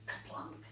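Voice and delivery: soft, voiceless plop; hushed sound-effect word; short daughter's kaplunk. Shown as a demonstration. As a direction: drop it softly like a stone. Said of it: "so you go".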